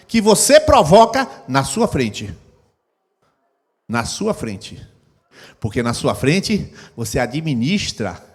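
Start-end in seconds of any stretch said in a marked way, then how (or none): none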